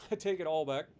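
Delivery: laughing through the words. Real, not acted. Streamer retracting his joke to chat, laughing. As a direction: chuckle while taking it back.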